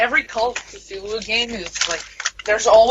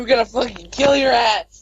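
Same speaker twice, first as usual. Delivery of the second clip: angry shout; 2 semitones higher than usual. Acted. Mock threat in friends' banter.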